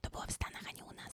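barely audible whispered correction; whispered aside. Real, not acted. Whispered aside clarifying it happened abroad. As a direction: whisper a quick footnote.

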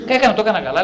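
laughing while repeating the client's boast; laughing quote. Retold or imitated. Retelling a client's smug boast, laughing. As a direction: chuckle through the quoted words. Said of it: "λέει".

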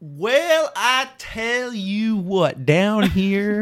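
high, drawn-out Southern redneck voice; redneck accent. Acted. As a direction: drawl it like a high-pitched bayou redneck.

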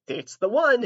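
imitating mom. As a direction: hand it over like it's simple. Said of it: "It was like".

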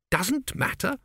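sharp high disbelieving echo; incredulous. A narrator's reading. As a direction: throw the words back, stunned. Tepic echoes in disbelief.

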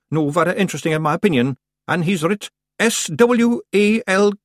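high, loud little Scots warrior, businesslike; feisty Scottish clansman. A narrator's reading. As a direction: rattle off news as a tiny Scottish chief. Rob Anybody voiced in narration.

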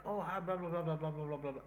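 lightly voiced Yeti grumble; a hint of a Yeti mumbling blah. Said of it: "it's the Yeti voice".

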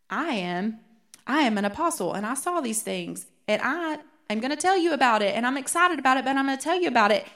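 excitedly announcing the news; excited apostle. Retold or imitated. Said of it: "we see a shift in John's tone".

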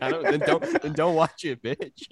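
very high squeaky yelling retort; high mock retort. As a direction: shriek it back in a high voice. Voicing Chinese official's reply.

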